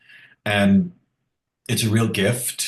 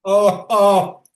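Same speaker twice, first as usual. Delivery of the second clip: delighted squeal; 13 semitones higher, 7 dB louder than usual. Real, not acted. Friend touched by fond memory.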